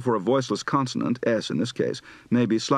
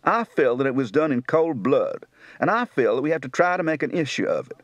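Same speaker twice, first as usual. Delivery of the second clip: Kentucky accent. Shown as a demonstration.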